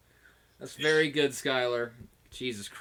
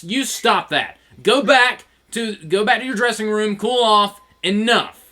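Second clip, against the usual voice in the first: stern order; 4 semitones higher, 4 dB louder than usual. Retold or imitated. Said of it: "and John's like".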